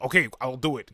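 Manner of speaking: imitation of a nervous yes; scared. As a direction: blurt it out to get away. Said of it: "'cause she's scared".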